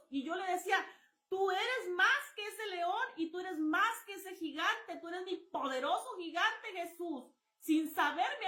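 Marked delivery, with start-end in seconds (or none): 1.3-7.2 fervent praise. Retold or imitated. Fervent prayer to Jesus.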